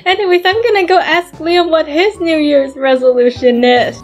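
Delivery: a hint of a perky character; lightly voiced perky doll. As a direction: lightly pitch up and hurry along. Plays Cherry.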